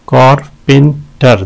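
"कारपेंटर" in three spaced beats; syllable breakdown. Shown as a demonstration. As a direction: pause between syllables of "कारपेंटर". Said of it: "दो हैं इसके". ("कारपेंटर" हिस्सों के बीच रुककर)

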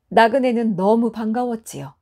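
ordinary delivery, nothing marked

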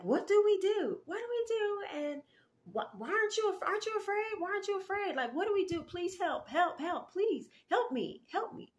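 very high-pitched mock panic; imitated panicked pleading. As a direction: beg frantically in a high put-on voice. Acts out panicked stranger begging help.

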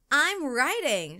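high, slow, loud I'm riding; shouted. A narrator's reading. Katie riding the horse, proud shout. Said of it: "shouted Katie".

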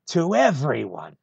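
proud loud declaration; rallying cry. Acted. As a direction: lift it up to the whole crowd. Speech builds to rallying cry.

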